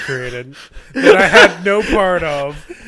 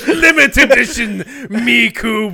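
mock sobbing; 5 semitones higher, slower than usual. Mock tearful inheritance.

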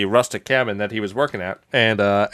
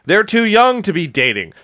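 high-pitched ranting mother; hammed-up indignant protest; mock crazed outrage; 8 semitones higher, 4 dB louder than usual. Dolly going crazy over the dinner, mock outraged. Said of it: "fucking crazy".

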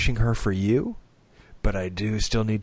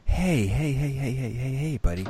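soothing dad. Retold or imitated. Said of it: "get down on one knee and go".

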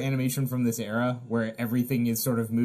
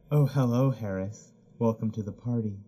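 sultry woman. Acted. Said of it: "your voice of a sexy cartoon lady".

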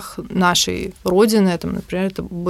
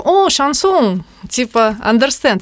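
drawn-out, higher "O, шансон!" like an excited foreigner; mock American enthusiasm; 5 semitones higher, 3 dB louder, slower than usual. Telling a friend how her American colleague reacted to chanson, in a mock excited voice. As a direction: ham up the clueless American's delight. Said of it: "он такой".

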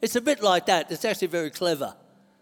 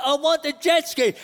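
mildly acted childish demand, higher; protesting flesh guy; 6 semitones higher than usual. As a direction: lightly play the flesh demanding its treat. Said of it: "Fleshy starts to cry".

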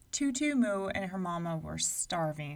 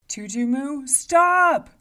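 loud, higher shout to stop; giant pleading shout; 7 semitones higher, 14 dB louder, slower than usual. A narrator's reading. Giant in pain shouting at the girl, loud. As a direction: yell at her to stop.

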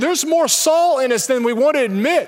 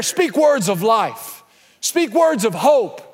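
slow, weighty and deliberate; slow exhortation; slower than usual. Real, not acted. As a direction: let each word land. Slowed exhortation.

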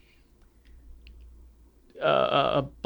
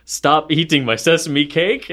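slow mock-stern "Stop eating my sesame cake"; lightly acted film quote; quoting a movie line; 4 semitones higher, 4 dB louder, slower than usual. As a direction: quote it slowly, a bit stern. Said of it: "he mentioned".

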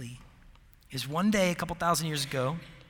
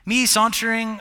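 louder, higher, amused disbelief; excited, incredulous; 5 semitones higher, 9 dB louder than usual. Real, not acted. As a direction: play up how absurd it would be. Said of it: "I don't even know what sauntering looks like".

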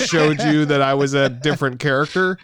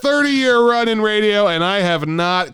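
yelling radio host; 2 semitones higher than usual. Pretend. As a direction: rant at the caller. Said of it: "all I did was start yelling".

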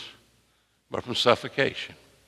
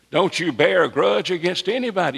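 raised exhortation; 4 semitones higher than usual. Real, not acted. Same exhortation repeated higher.

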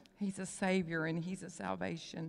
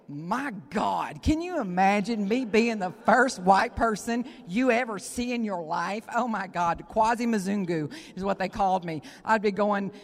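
excited exclaiming; 2 semitones higher, 11 dB louder than usual. Real, not acted. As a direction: cry out in amazement. Excited exclamation about Africa.

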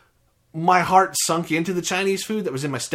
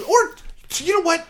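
excited; 4 dB louder than usual. Real, not acted. Sudden change of mind.

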